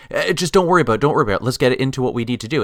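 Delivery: imitating someone glossing over a problem; mock brush-off. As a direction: wave the worry away and rush on. Voices writers brushing off the plot.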